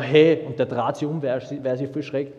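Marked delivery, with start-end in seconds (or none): 0.0-0.5 "Hey!" yelled much louder, a real shout. Retold or imitated. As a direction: bellow "Hey!" to make him turn round. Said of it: "Schrei ich nach".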